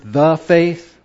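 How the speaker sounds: THE said firmly as a full "thuh"; stress on THE. Shown as a demonstration. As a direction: set THE apart before "faith". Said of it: "the word "the," those two words".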